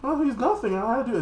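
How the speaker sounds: high, dismissive hammed-up voice; lightly voiced smug fox fighter; mock smug fox. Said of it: "Fox, I guess".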